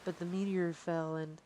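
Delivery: soft princess voice. Acted. Voicing princess softly.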